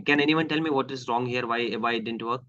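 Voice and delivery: ordinary talk, nothing marked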